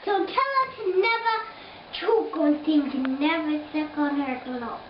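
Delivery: put-on English accent. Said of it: "What kind of English accent".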